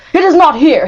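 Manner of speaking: high, loud frantic shout; frantic cry. A narrator's reading. Madman digging for his son, crying out. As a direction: cry out madly while digging. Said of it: "he cried".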